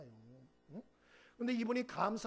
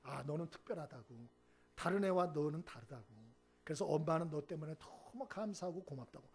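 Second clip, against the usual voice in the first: tender praise; 4 semitones lower than usual. Retold or imitated. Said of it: "말이 다르게 나오는데".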